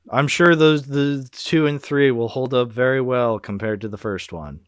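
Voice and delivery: feigned confidence; sarcastic. Real, not acted. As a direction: say it as if you believe it, with dry sarcasm. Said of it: "I'm being sarcastic".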